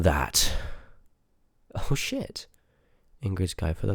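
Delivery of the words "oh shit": sudden high-pitched oh shit; surprised curse. Acted. Finding the guide she thought was lost, a shocked blurt. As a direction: blurt it out, caught off guard. Finds the rare book.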